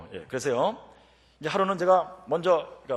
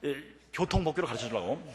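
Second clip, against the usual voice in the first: ordinary talk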